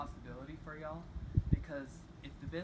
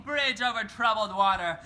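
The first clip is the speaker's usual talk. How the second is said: belted out, much louder and higher; screaming; 6 semitones higher, 14 dB louder than usual. Retold or imitated. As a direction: scream the song title at the bees. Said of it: "and I'm screaming".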